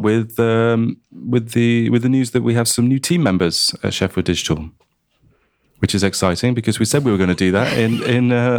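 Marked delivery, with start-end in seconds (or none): 5.8-6.5 understated, matter-of-fact delivery; unexcited. Real, not acted. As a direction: say it with little sign of excitement. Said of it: "Did I sound not excited enough?".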